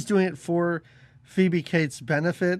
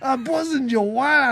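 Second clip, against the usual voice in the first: a mock sleazy gloat; creepy limo driver voice; 6 semitones higher, 3 dB louder than usual. Podcaster repeats the confession, sounding like a sleazy driver. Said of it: "I sound just like that rapey limo driver".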